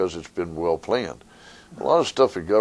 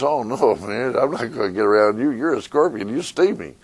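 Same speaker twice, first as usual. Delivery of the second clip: frog voice; 4 semitones higher than usual. Retold or imitated. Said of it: "And the frog says".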